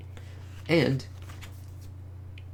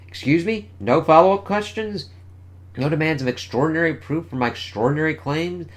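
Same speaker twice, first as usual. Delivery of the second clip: high-pitched indignant disbelief; acted daughter, baffled at being brushed off; incredulous; 7 semitones higher, 4 dB louder than usual. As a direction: question them in rising outrage. Daughter dismissed after incredible claim.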